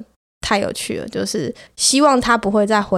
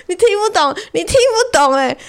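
exasperated; 9 semitones higher than usual. Real, not acted. 对着听不懂拒绝的J先生，拉高声音慢慢数落. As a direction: spell it out to someone who won't get it. Venting at the persistent man.

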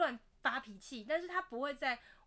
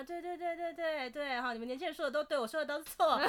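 mock sulky dad; 4 semitones higher than usual. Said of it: "我爸又在那边说什么".

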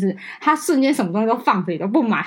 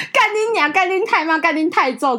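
laughing curse; 7 semitones higher than usual. Retold or imitated. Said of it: "讲说".

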